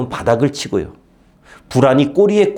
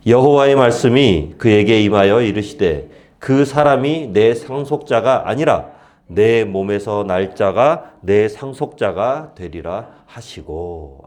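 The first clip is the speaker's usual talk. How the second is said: scripture reading; 2 semitones lower, slower than usual. Acted.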